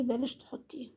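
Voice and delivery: quietly urging her to drop it; soft advice. Real, not acted. Telling the woman to remove her niqab, softly.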